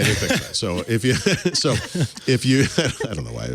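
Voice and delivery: helpless laughter cutting into the words; laughing. Real, not acted. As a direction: keep breaking up as you restart the sentence. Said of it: "I don't know why that's humorous".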